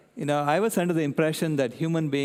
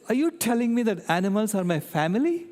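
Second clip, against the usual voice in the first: lightly voiced little girl, higher; child's astonishment; 7 semitones higher than usual. Granddaughter asking grandpa, lightly imitating a surprised child. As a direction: imitate a stunned five-year-old. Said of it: "she said".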